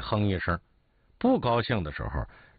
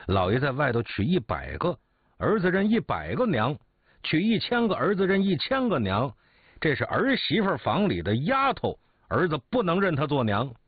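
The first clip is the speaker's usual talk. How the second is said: defiant retort; 5 semitones higher than usual. Acted. Son talking back to his angry father, defiant and rising. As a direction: voice climbing higher with each line of defiance.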